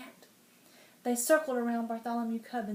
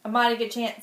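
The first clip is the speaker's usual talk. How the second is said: pleased king; 7 dB louder, faster than usual. Acted.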